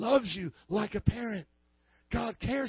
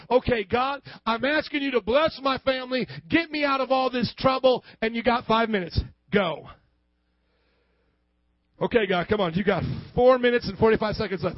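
mock impatient demand; 4 dB louder than usual. Impatient believer giving God deadline.

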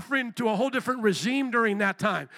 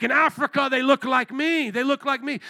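raised, loud imitation Kenyan accent; African accent; 4 semitones higher, 5 dB louder than usual. Preacher resuming the Kenyan brother's answer, imitated African accent. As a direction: retell it in an emphatic African accent. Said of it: "trying to do my African accent".

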